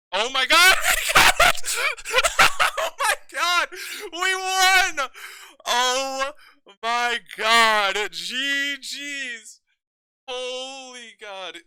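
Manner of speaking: high, loud shrieks of joy with laughter; shrieking jackpot winner. Real, not acted. Just won the game.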